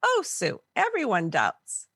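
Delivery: light, airy, reassuring; breezy older lady brushing it off gently; lightly voiced gentle older woman. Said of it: "very lightly".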